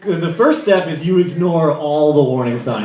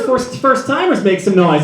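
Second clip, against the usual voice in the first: crowd callout; 5 semitones higher, 3 dB louder than usual. Real, not acted. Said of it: "calling out first timers".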